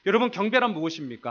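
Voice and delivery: ordinary talk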